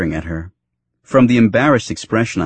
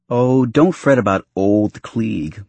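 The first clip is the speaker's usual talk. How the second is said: put-on "old" leaned on and drawn out; slow down to emphasize "old"; stress on old; slower than usual. A narrator's reading. Girlfriend teasing the father, stress on "old". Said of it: "emphasizing the word old".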